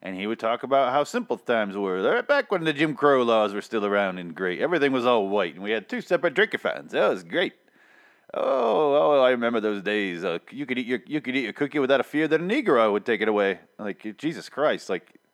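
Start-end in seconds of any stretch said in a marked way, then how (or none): 2.0-13.6 lightly voiced, nostalgic old-timer; a hint of the ad grandpa, sarcastically; mocking the cookie ad's old man. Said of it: "it was in his tone of voice".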